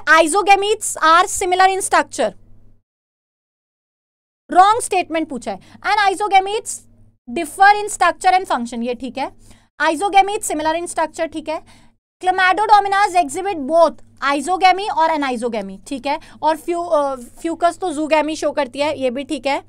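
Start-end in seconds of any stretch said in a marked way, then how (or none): 0.1-2.3 slow reading aloud. Acted. Re-reads an option. 5.8-8.8 slow reading aloud. Acted. Re-reads an option. 9.8-11.3 slow reading aloud. Acted. Re-reads an option. 12.2-15.8 slow reading aloud. Acted. Re-reads an option.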